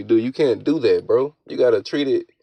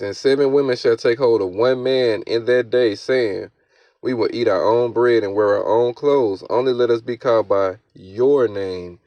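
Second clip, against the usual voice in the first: declaimed Bible verse; scripture reading. Acted. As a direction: read the verse out firmly with punched key words. Reads scripture aloud.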